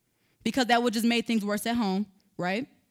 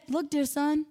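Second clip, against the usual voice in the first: calm, gentle; 3 semitones higher, slower than usual. Retold or imitated. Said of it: "in a calm, gentle manner".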